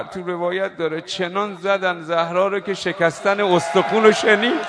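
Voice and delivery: building to a loud cry; mourning shout. Acted. Preacher crying out the narration's cruelty to the mourners. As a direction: hurl the grief at the crowd.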